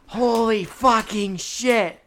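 high, drawn-out yell of amazement; loud, high mock scream; imagined screaming. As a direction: scream it like an ecstatic moviegoer, stretching each word. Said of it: "like, screaming".

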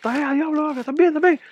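high mock shopkeeper voice; shop guy voice. Imitating the shop clerk reassuring him, high put-on voice. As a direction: squeak it out like the nervous shop guy. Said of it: "el tipo del puesto".

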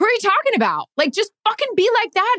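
very high, laughing fan voice; laughing excited fan. Retold or imitated. Reporter mocking her own eager-fan question, laughing. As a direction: gush with a giggle. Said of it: "the excited sports fan that I was".

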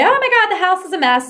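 mock-angry burst about the mess; angry complaint. Partner coming home and blaming you, loud exasperation. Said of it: "'cause they're angry with you".

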